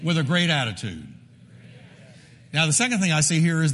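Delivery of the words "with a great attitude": congregation call-and-repeat. Shown as a demonstration. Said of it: "everybody say with me".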